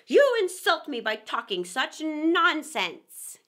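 slow, loud, wounded dignity; offended. Acted. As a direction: stalk off insulted. Mouse walking away offended.

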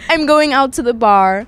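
American accent that drifts Canadian; careful American accent attempt. Shown as a demonstration. Guest retries for host, Canadian-sounding American accent. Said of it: "you sound Canadian".

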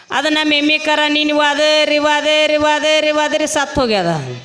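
high, drawn-out imitation of a weeping old woman; lightly hammed-up bereaved granny; mock wailing granny. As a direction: hold one high note like a mock lament. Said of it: "ಯಾಕೆ ಅಜ್ಜಿ ಅಳಕತ್ತಿ".

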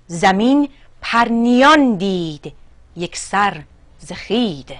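slow, measured verse reading with pauses between phrases; poem recitation. Acted. (شعرخوانی حماسی، شمرده)

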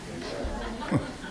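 soft, voiceless whoosh; imitated falling whoosh. Preacher mimics jumper dropping from airplane, soft whoosh. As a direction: make a breathy whoosh of something plummeting.

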